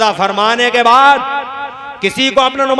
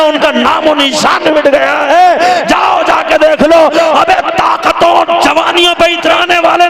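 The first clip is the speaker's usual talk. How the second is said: preaching at full force. Acted. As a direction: thunder a warning at the congregation. Fiery warning to the crowd. (जोशीली तक़रीर)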